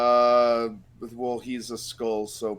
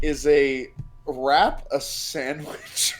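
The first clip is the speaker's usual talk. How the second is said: very slow, spaced-out question; deliberate question; much slower than usual. Real, not acted. Player puts the sandwich debate to friends, deliberately. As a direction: pose it slowly, word by word.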